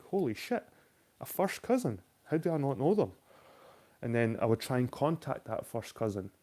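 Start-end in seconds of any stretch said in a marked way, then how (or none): 0.0-3.1 higher, stunned disbelief; mock shocked surprise. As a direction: gasp it out, caught off guard. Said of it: "And I'm like".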